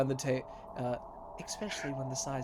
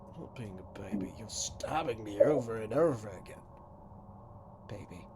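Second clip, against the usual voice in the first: complaining customer; 2 semitones lower than usual. Acted. Customer protests being stabbed.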